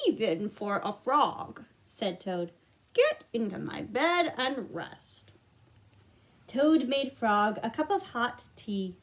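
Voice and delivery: put-on gentle read-aloud to children; storybook narration. A narrator's reading. Reading Frog and Toad to young listeners, gentle storytelling. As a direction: read it like bedtime for little ones.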